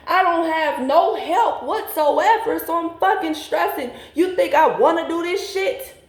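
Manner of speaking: high, rising, upset pleading to her father, slowed in places; retold desperate pleading. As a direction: replay the pleading, voice climbing high.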